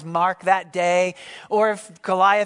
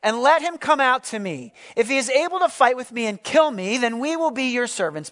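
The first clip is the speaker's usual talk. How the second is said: raised, higher battle call; Goliath's challenge cry; 5 semitones higher than usual. Acted. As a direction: call out the challenge across the valley. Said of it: "he cries".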